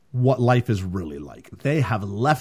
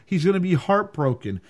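slow, mock anguished aside; sad viewer; 4 semitones higher than usual. Viewer moaning at the screen over the dog, slow mock sorrow. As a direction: drag it out in mock dismay. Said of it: "And you're like".

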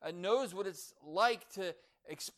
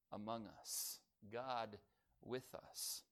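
hushed refrain; 6 semitones lower, 9 dB quieter, slower than usual. Acted. Softened closing refrain.

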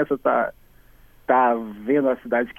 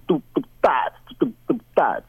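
vocal beat imitation. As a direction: mouth the beat like a drum machine. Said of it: "uma batida assim".

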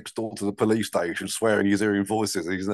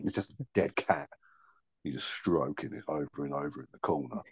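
softer, unvoiced whisper; 7 semitones lower, 8 dB quieter than usual. Real, not acted. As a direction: whisper it as an aside. Whispered aside.

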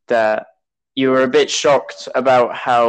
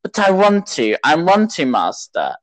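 high-pitched whiny-child imitation, dropping on the last word; childish Anakin; 3 semitones higher than usual. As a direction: plead like a mock spoilt child. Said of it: "he's like such a child".

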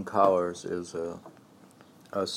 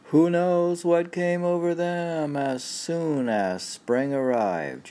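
robot reading; 11 semitones higher, 3 dB louder, slower than usual. Acted. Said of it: "I'll read it like a robot".

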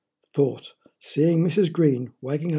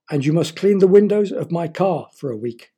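mock cry out; 3 semitones higher, 4 dB louder than usual. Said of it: "cried Missus Green".

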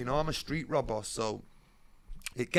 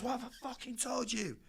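snapped threat; 11 semitones higher, 5 dB quieter than usual. Retold or imitated. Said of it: "He goes".

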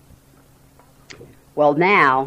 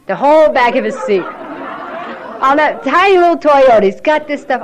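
talking through real laughter, higher; laughing; 9 semitones higher, 7 dB louder than usual. Real, not acted. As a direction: laugh your way through the description. Laughing while describing the messy car.

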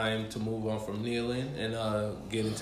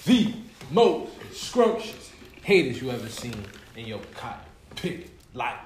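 building grand announcer intro; rising to a big hyped peak; hype announcer; 4 dB louder than usual. Pretend.

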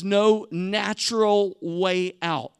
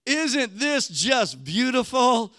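gushing tourist; 2 semitones higher than usual. Retold or imitated. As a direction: play a wide-eyed sightseer begging for a photo. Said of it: "You can just hear 'em".

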